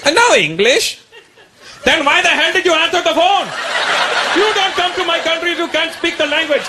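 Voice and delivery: high, exasperated dad berating the caller; a redneck rant down the phone; indignant dad. Retold or imitated. Dad yelling at the lady.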